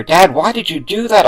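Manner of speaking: high, loud, shocked cry; confused scream. Acted. Son screams at father who attacked his friend. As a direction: scream at him in disbelief. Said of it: "I screamed".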